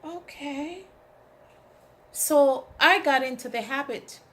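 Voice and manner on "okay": taken aback. Retold or imitated. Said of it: "And I'm like".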